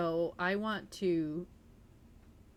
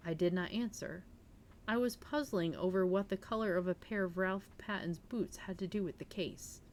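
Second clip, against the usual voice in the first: steady read-aloud narrator voice; calm audiobook reading; story narration. A narrator's reading. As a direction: read the novel to your listeners. Reads mystery novel aloud on stream.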